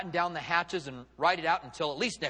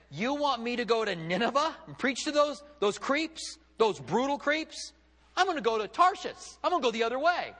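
higher, incredulous Jonah protesting his orders; acted indignant refusal; 6 semitones higher than usual. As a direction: act out a defiant prophet balking at the task. Preacher acts out Jonah refusing God.

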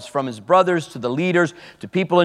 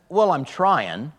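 evasive answer; 3 dB quieter, slower than usual. Retold or imitated. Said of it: "he just wanted to get away".

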